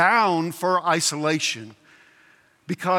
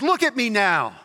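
lightly voiced boastful ghost, a bit higher; rough ghost; 4 semitones higher than usual. Ghost boasting to his friend from heaven, rough character. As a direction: show yourself off as the ghost. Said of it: "the ghost says".

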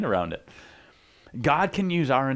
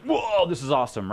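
mock awe; 4 semitones higher than usual. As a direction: act out an amazed fan's reaction. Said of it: "the one that was like".

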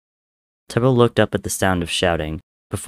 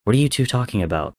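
demanding; 4 semitones higher, faster than usual. Acted. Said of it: "Tommy demanded".

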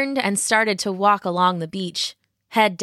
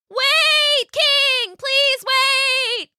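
high, loud desperate rabbit cry; shouting rabbit; 4 dB louder, much slower than usual. A narrator's reading. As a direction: call out to stop the king. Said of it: "she shouted as best as she could underwater".

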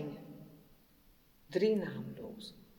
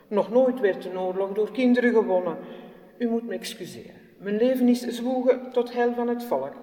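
loud, self-important politician speech; pompous statesman; 3 semitones higher, 6 dB louder than usual. Acted. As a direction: orate it like a busy statesman dismissing her. Statesman brushes her off.

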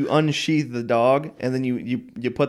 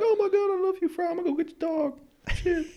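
high robot-ish voice, much higher; Bender voice; 5 dB quieter than usual. Retold or imitated. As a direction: gush it like a sappy robot. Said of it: "Bender was like".

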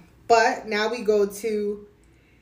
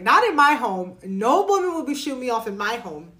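louder, firm mock scolding; indignant; 2 semitones higher, 4 dB louder than usual. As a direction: plant your feet and defend your home. Viewer imagines telling Ava off.

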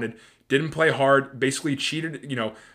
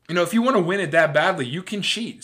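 lightly mocking, higher-pitched permissive official; a hint of sarcastic impersonation, pitched up; Rob Manfred; 4 semitones higher, 3 dB louder than usual. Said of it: "says Rob Manfred".

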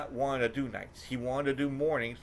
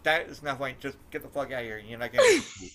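angry worker; 3 semitones higher, 4 dB louder than usual. Retold or imitated. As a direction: throw him out of the drive-thru. Worker yelling at customer.

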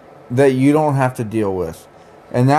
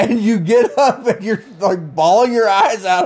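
laughing; 6 semitones higher than usual. Real, not acted. Laughs while describing her crying.

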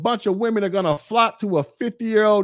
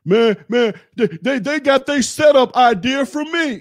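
high, stammering mock whine; mock crying complaint; 5 semitones higher than usual. YouTuber mimicking a rival claiming credit for setups, mock whining. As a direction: imitate a crybaby griping about being copied. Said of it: "this nigga's literally online crying".

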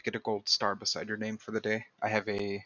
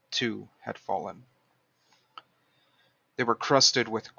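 story narration. A narrator's reading. Reads a fiction passage aloud.

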